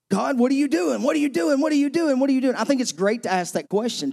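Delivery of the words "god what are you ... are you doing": rising, insistent repeated pleading, higher; impatient pleading. Acted. Restless believer pressing God for answers, impatient pleading. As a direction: nag God over and over, restless.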